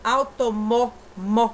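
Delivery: "Automó" loud, then "mó" punched alone; stressed syllable. Shown as a demonstration. Teacher demonstrating stress to pupils, loud forceful "mó". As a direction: hit "mó" hard at the end of "Automó" and repeat it. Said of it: "essa sílaba mais forte".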